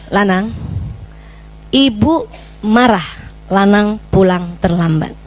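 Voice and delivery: name the feeling calmly, no blame; calm firm telling-off. Shown as a demonstration. Mother calmly tells her late son she is angry. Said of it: "tegur perilakunya".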